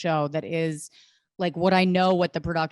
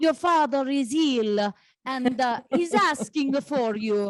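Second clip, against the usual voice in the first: very poor put-on Italian accent, pitched up high; 6 semitones higher than usual. Recounting a scene where a mother phones her son, worst Italian accent ever. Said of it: "the worst Italian accent you've ever heard".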